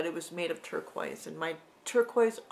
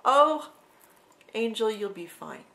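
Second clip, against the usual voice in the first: reassuring elder lady; 3 semitones higher, 10 dB louder than usual. Retold or imitated. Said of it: "And they go".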